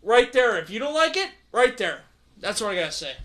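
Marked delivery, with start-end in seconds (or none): 2.4-3.1 winded after a rant; breathless from shouting; out of breath. Real, not acted. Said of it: "I'm out of breath".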